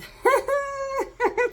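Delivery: high, loud laugh; burst of laughter. Real, not acted. Reader reacting to the Two of Swords, loud high laugh.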